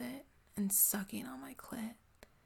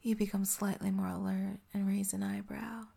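ASMR whisper. Acted. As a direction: breathe every word close to the mic.

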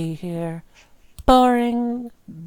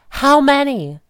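louder, higher furious demand; jealous girlfriend shouting the question; angry shout; 5 semitones higher, 10 dB louder than usual. Acted. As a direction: throw the question at them. Jealous rant at partner.

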